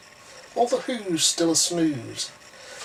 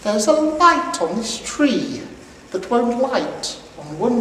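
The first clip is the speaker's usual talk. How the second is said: fake jolly Santa; 2 semitones higher, 4 dB louder than usual. Grinch lying to the little girl, hammed-up Santa. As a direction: sell the fib like a kindly old man. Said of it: "the fake Santa Claus lied".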